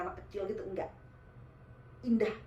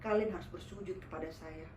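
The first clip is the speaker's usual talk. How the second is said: possessing jinn; 5 semitones lower, 4 dB quieter than usual. Retold or imitated. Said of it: "Dia bilang gitu".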